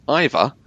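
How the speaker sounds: "Either" said as EYE-vuh; British "Either". Shown as a demonstration. Briton corrects himself on "Either", pronouncing it EYE-vuh. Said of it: "I'm gonna say that again".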